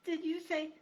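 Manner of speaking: high, stammering mouse, rising to a squeak; frozen with fear, stumbling; terrified stammer. Acted. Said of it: "she stammered".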